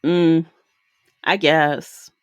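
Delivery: a lukewarm mock reaction to a happy scene; unimpressed. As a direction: shrug it off, barely interested. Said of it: "And I'm like".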